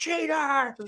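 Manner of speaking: high-pitched mock scream. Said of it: "scream at 'em and be like".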